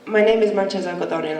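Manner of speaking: blocked nose, stuffy speech; talking through a stuffy head cold; congested voice. Real, not acted. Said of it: "I don't sound like this normally".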